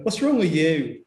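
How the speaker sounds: mock northern English scolding; northern English accent. Winding her up, mock northern English accent. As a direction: put on a jokey northern accent. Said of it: "That's how a northern accent is".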